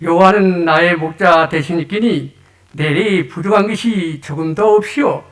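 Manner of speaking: a light touch of North Korean dialect; 북한 말투로 가볍게. Retold or imitated. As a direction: read it with a mild North Korean lilt. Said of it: "북한 버전입니다".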